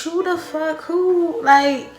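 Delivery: high, loud indignant demand; furious rant. Real, not acted. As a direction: demand answers, fuming. Furious about being cheated.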